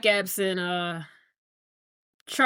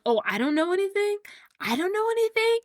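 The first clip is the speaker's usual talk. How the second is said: higher-pitched incredulous retort; indignant echo; 8 semitones higher than usual. Retold or imitated. Son throws the father's put-down back at him, indignant. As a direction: throw it back as an offended question.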